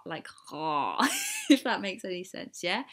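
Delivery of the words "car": long open "car", ah held; American open vowel. Shown as a demonstration. Vlogger showing the vowel in coffee, open "car". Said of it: "you have to do, like, the O".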